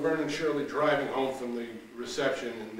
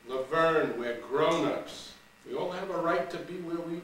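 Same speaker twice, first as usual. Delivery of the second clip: higher, bright-eyed Shirley dreaming of the coast; eager Shirley; 7 semitones higher, 4 dB louder than usual. Acted. Shirley coaxing Laverne toward California, higher and eager. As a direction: sell Laverne on Los Angeles.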